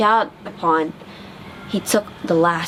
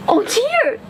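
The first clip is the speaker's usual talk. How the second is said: high worried oh dear; startled, much higher; mama duck realising a duckling is missing; alarmed gasp. A narrator's reading. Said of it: "she gasped".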